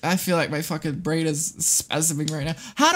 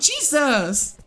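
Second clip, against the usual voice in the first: normal talking voice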